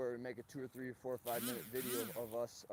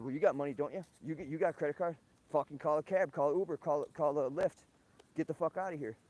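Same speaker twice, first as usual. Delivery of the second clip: retelling a heated get-out, louder; angry retort; 3 semitones higher, 9 dB louder than usual. Retold or imitated. Vlogger reenacting telling the girl to leave, angry and loud. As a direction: throw her out loud and fed up.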